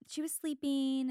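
"sleeping" drawn out as "sleepeen"; slow Utah "sleeping" ending in "een"; dropped G. Retold or imitated. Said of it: "They don't say the G".

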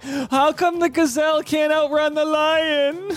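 high, slow mock German accent, wide-eyed. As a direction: ham up a German accent while asking it. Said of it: "I don't know why I sounded German".

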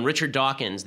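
usual speaking voice

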